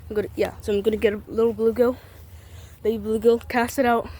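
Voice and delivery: winded, rushing the words; out of breath. Real, not acted. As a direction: talk fast while catching breath. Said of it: "Sorry, I'm out of breath".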